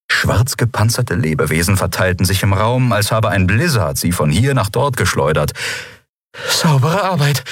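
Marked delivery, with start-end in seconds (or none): 6.5-7.4 grudgingly impressed. A narrator's reading. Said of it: "keuchte sie, widerwillig beeindruckt".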